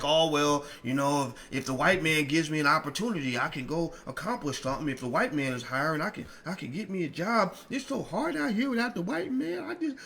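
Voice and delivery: mock a helpless man begging for a chance; imitating a weak man who blames others; mocking whiny weak man. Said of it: "the man who's like all like feeling like".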